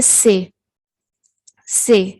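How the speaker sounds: slow whispered سے; teacher whispering the letter s slowly; whispered demo. Shown as a demonstration. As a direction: breathe out سے slowly with no voice. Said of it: "اس کو وہ سے کہتے ہیں".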